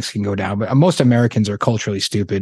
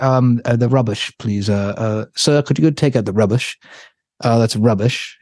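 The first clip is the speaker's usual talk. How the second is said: put-on English accent. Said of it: "people with an English accent".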